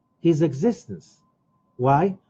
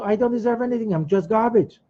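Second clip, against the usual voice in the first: higher-pitched self-pitying imitation; mock whimpering; 6 semitones higher than usual. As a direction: whimper lightly as if beaten down. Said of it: "you just sit there whimpering".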